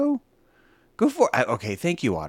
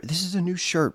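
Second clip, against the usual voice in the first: ordinary talk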